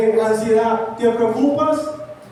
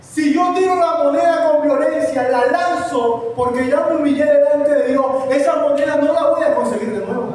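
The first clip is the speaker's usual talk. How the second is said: projected, insistent sermon delivery; preaching; 3 semitones higher than usual. Acted. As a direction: preach it out to the congregation. (prédica enérgica)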